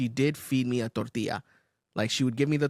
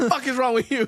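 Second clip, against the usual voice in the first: mock outrage; 10 semitones higher, 4 dB louder than usual. Mock outrage at fork users.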